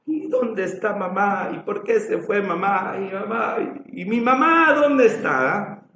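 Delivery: lightly voiced little girl asking for mama; a child plaintively calling for a parent; small child's plea. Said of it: "la pequeña lo ama, y".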